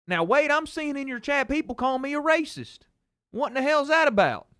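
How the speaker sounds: high-pitched indignant Southern dad impression; upset dad. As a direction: imitate dad calling up, aggrieved and baffled. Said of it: "he got so upset he called me and he goes".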